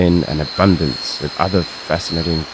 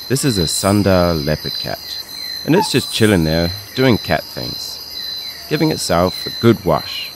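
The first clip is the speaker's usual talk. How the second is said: nature documentary. Acted. Nature documentary narration voice-over.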